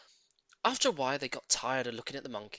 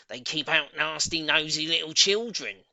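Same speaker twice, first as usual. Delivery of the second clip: lightly raised, spiteful boast; a hint of Missus Twit; 6 dB louder than usual. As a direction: boast smugly about the thistles. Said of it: "she used to say".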